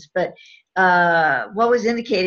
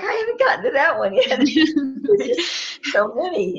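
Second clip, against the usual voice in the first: laughing; 7 semitones higher than usual. Real, not acted. Laughing about her long list.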